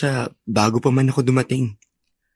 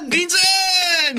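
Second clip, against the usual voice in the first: happy shout. Acted. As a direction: call out delightedly to your cousin. Cousins greet each other.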